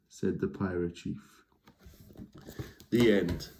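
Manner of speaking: lively storybook read-aloud; reading to children. A narrator's reading. Reading a troll story to young listeners, lively. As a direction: tell it like bedtime to kids. Reads a picture book aloud.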